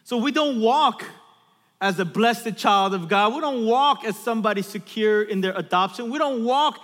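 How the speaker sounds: insistent sermon delivery; emphatic preaching. Real, not acted. Preacher warns about falling back from identity, emphatic preaching. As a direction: press each point on the congregation.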